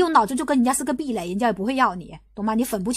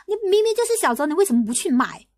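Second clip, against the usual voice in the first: a mild mock accusation, first phrase higher; mocking accuser; 4 semitones higher than usual. Streamer mimicking haters scolding fans, mild mock accusation. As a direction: lightly imitate a hater's scolding. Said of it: "他们就骂你啦".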